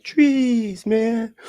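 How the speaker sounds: high, far-off stoned drawl on "Trees, man"; stoner voice. Retold or imitated. Mocking a drug addict yelling "Trees, man". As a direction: play a burned-out drug addict saying it. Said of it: "Unless you're a drug addict. You're like".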